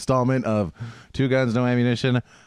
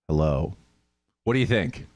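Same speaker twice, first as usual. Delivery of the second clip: Hill dog voice. Acted. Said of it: "working on my hill dog ex-, in, im-, impression".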